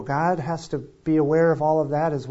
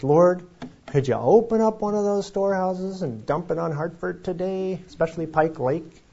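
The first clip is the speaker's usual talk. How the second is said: mock prayer; 5 semitones higher than usual. Joking prayer for snow.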